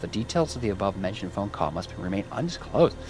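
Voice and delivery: reading out an in-game news story; lightly voiced news read; news report read. Reads in-game news text aloud.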